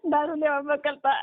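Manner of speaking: real sobbing through the words; crying. Real, not acted. Woman crying to helpline about husband's drinking, sobbing. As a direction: voice choked with tears. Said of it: "ઓલું બેન રોયા જ કરશો".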